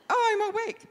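high, loud, giggling mock quote; laughing mock quote. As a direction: laugh it out as a teasing imitation. Mocking pastor's view, laughing.

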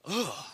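mock groan of disgust; disgusted ugh. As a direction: let out a revolted ugh. Disgust at donkey's head dinner.

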